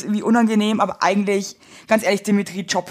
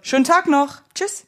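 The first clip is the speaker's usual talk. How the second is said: loud cheerful goodbye; 6 semitones higher than usual. Pretend. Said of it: "sagst dann ganz laut".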